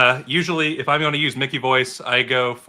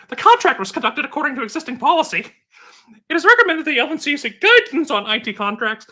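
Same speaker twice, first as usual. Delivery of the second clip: high, loud, put-on London patois accent reading a report; 5 dB louder than usual. Podcast cohost reads report findings for a laugh, in a hammed-up London patois accent. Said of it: "London patios".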